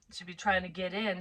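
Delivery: usual speaking voice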